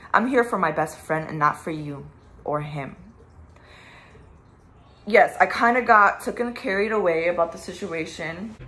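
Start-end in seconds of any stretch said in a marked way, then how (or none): 5.1-8.6 pissed. Real, not acted. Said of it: "am pissed".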